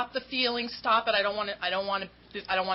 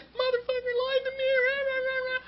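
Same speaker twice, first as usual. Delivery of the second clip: high, ranting mock fury; retold rant. Calling her sponsor about a lying friend, high mock rant. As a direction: rattle it off like a furious rant. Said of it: "I lost it".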